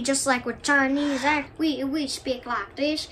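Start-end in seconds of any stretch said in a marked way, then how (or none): 1.6-3.1 slow put-on Southern accent. Shown as a demonstration. Comparing Southern and Western accents, slow Southern accent. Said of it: "Western is a little more speedy".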